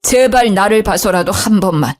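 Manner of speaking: humble plea. Acted. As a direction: beg her gently on his knees. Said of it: "무릎을 꿇으셨죠".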